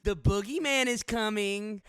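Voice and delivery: slow, loud, high spooky villain voice; slow theatrical villain menace. Acted. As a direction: draw it out like a horror villain. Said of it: "wasn't gonna do a spooky voice".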